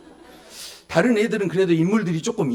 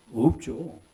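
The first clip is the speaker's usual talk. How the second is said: normal talking voice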